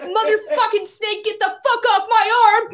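high, loud panicked yell at the snake; retold panicked yell. Woman with a snake on her arm, yelling in panic. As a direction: yell it like you're shaking a snake off your arm. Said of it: "violently shaking her arm like".

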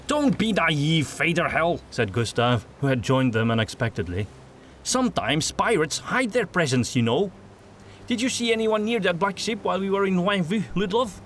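a hint of a cocky merchant, lightly voiced; Gustav voice. A narrator's reading.

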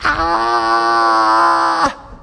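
long, sustained mock scream; drawn-out imitation shriek; imitated child's scream. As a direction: hold out a little kid's shriek. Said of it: "And then the five-year-old".

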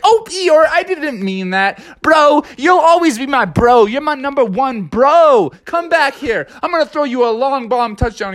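Froggy high-voiced telling his team off; excited Froggy. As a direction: pitch way up as Froggy. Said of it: "And Froggy's like".

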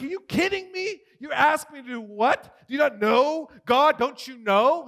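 high, incredulous retold protest; frustrated. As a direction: protest to God in disbelief. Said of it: "I was frustrated".

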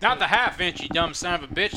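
angry yell. Retold or imitated. Voicing angry father at flashlight.

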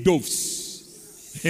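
"doves" with a long o, like "dohvs"; Fanti pronunciation. Retold or imitated. Preacher showing how Fanti say it, "doves" with an oh. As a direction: draw out "doves" with an oh vowel. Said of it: "The Fanti say doves".

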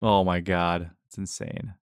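breathless, whispered disbelief; stunned disbelief. Real, not acted. Stunned by the touchdown count.

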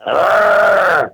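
shouted zombie groan; zombie noise. Pretend. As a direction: bellow it like a hungry zombie.

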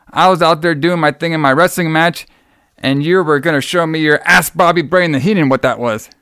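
running mock protest; mock wrestler complaint. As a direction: complain like an affronted wrestler, lightly put on. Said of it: "he was all like this".

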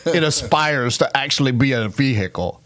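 imitated Boston radio guy; Boston accent. Car-show host joking about the Ford Aspire, Boston accent. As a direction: tell the joke in a put-on Boston accent. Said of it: "I just wanted to do my Boston accent".

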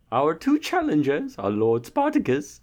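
town crier. Pretend. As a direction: proclaim like a royal herald. Repeats herald announcement.

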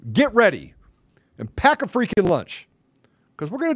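a threatening whisper at the rival; menacing whisper. Real, not acted. Threatening the rival with a whispered warning. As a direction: hiss the warning under the breath.

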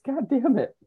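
high, sharp mock outburst; mock yelling at kids. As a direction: play-act yelling at the kids. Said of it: "Gotta go yell at the kids".

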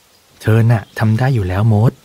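ordinary delivery, nothing marked

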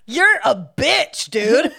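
laughing insult. Retold or imitated. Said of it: "I would have been like".

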